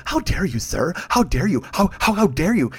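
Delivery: sputtering, huffy indignation; hammed-up affronted objection; mock outrage. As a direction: stammer with offended dignity. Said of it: "but instead of going".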